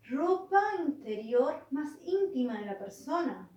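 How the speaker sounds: slow, deliberate reading aloud; reading a definition. Acted. Devil finding what almilla means, reading slowly. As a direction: spell out the discovery slowly.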